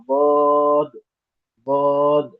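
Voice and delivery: ضاد said like bod, heavy and rounded; dhaad as bod. Shown as a demonstration. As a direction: sound ضاد as bod, not daad. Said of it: "داد نہیں ہوگا".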